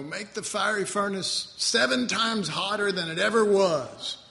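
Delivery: hammed-up furious king; angry king. King orders his servants to heat the furnace, mock furious. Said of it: "and he says".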